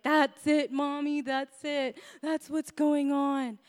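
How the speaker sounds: mock tearful protest with drawn-out ending; imitated crying child. Daughter to Mommy through tears, lightly imitated crying. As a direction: wail it lightly like an upset child. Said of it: "she started crying even harder, like".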